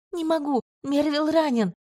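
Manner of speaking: high, desperate plea; panicked cry. A narrator's reading. Healer pleads with the commander to stay with the wounded, high and frantic. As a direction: plead that he's hurt.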